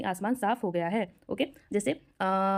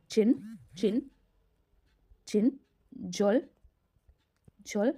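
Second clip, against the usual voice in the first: slow syllable-by-syllable modelling; much slower than usual. Shown as a demonstration. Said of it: "दयालु को बोलते हैं हम लोग छिनछोल हादा".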